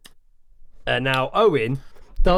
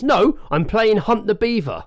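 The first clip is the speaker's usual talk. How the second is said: sarcastic reply; 7 semitones higher, slower than usual. Retold or imitated. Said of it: "the lady replies".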